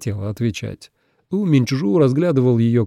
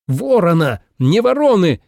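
higher, louder furious correction; angry cry, pitched up; furious shout; 6 semitones higher, 4 dB louder than usual. A narrator's reading. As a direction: snap back, stung. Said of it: "яростно крикнул У Минчжу".

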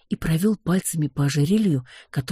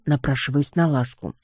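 ordinary delivery

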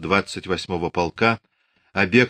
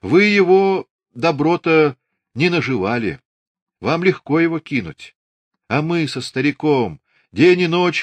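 old mother voiced high; 5 semitones higher, 3 dB louder than usual. A narrator's reading. Mother refuses to leave.

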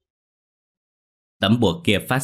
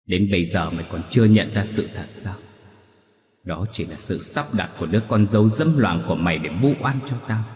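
growling anger. Acted. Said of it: "lại gằn giọng".

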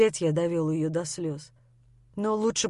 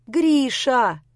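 a sharp, louder call of his name; 4 semitones higher, 6 dB louder than usual. A narrator's reading. Lera calling Grisha back, loud call. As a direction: shout the name, twice as loud. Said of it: "обрушилась на меня с удвоенной громкостью".

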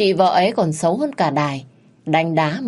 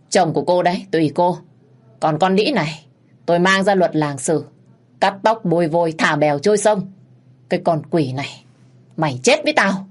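harsh threat. Acted. Minh threatens his wife.

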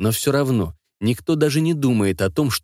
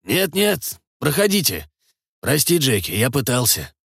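unsure and apologetic; 3 semitones higher than usual. Acted. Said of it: "неуверенный извиняющийся голос".

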